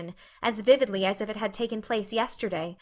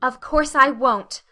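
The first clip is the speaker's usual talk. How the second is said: flashed; 3 semitones higher, 7 dB louder, slower than usual. Acted. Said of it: "flashed Anne".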